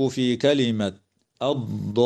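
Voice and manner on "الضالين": الضالين with the alif held for six beats before the doubled lam; six-beat madd. Shown as a demonstration. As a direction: stretch the ا of الضالين long. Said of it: "المد اللازم الكلمي المثقل بمقدار ست حركات".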